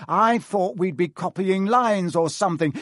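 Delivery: a hint of a sneering pupil; spoilt whine.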